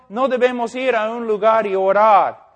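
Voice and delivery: Spanish with an American accent; non-native Spanish, American English accent. Real, not acted. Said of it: "Mi español no es muy bueno".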